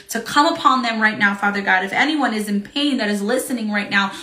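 fervent intercessory prayer; urgent prayer over the sick. Real, not acted. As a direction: pray earnestly for healing.

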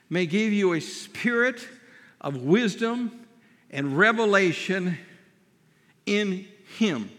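deliberate, phrase-by-phrase scripture reading; very slow reading. Real, not acted. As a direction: leave long pauses between phrases. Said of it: "go through this very slowly".

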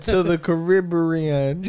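Caribbean drawn slowly in a playful put-on accent. Joking with co-hosts about a rapper's trip, put-on accent. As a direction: stretch out Caribbean in a mock accent. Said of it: "what accent is that?".

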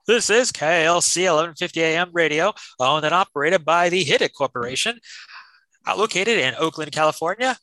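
formal station sign-off read; radio announcer. Acted. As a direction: announce it like late-night radio.

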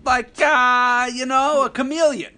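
high, loud mock voice. Teasing a friend's phases in a high mock voice.

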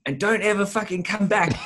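mock kid yell. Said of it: "And it shouts at me".

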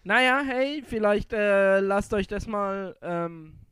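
mock guilt-trip, sugary and pointed; passive-aggressive hint to listeners. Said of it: "Das klingt so richtig passiv-aggressiv".

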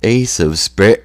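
loud, high, fast rocker bark; hammed-up heavy metal singer shout; mock metal band rocker. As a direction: ham up a metal frontman yelling the hit. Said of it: "That's what he'd do".

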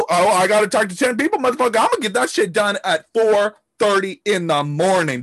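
shouted, high, hyped-up wake-up call; pumped-up hustler. Pretend. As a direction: fire yourself up like it's four A M. Hyped early riser voiced.

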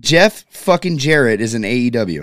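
loud incredulous repeat; excited disbelief. Real, not acted. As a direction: hammer it home, still stunned. Still reacting to surprise.

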